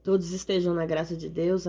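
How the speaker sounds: ordinary talk, nothing marked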